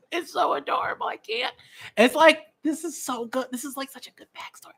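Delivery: very high squeal through laughter; overcome gushing. Real, not acted. Fan overcome by an adorable backstory, squealing with delight. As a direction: gush tearfully in a tiny high-pitched squeal. Gushing over a tearful scene.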